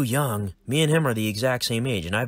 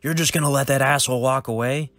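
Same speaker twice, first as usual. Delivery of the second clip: louder, higher indignant outburst; outraged; 6 semitones higher, 6 dB louder than usual. Acted. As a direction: demand it in disbelief. Logan outraged at boss.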